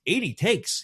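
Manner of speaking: startled exclamation, pitched very high; jolted Robert Duvall. Retold or imitated. Veteran actor jolts at the take count, incredulous. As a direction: imitate a jolt of disbelief. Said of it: "like, jolting".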